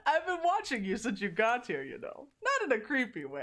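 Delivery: lightly put-on Russian accent; a touch of bad Russian accent, coy; Huntress. Huntress admitting she has been watching, in a light Russian accent. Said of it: "I didn't say I could do a good Russian accent".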